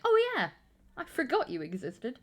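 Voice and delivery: mock surprised realization; high burst on the opening, then settling; sudden remembering. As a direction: act out a forgotten thing coming back. Acts out remembering a forgotten preorder.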